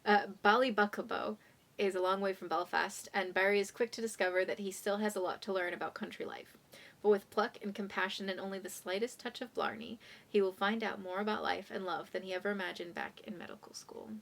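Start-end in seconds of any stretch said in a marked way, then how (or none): 3.1-10.0 whisper. Real, not acted.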